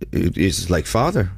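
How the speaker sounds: slow, halting imitation of a North Korean accent; a self-admittedly clumsy North Korean accent; bad North Korean accent. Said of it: "That was a bad representation of their accent".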